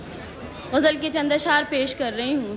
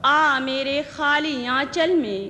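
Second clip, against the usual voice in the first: ghazal recitation; 3 semitones higher, slower than usual. Acted. Poet presenting her ghazal to the gathering, measured recitation. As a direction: recite each line deliberately, pausing between phrases.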